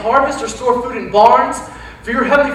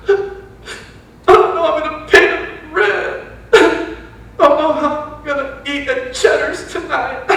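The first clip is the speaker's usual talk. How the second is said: mock worry; 5 semitones higher, slower than usual. Mock anxious person worrying about money.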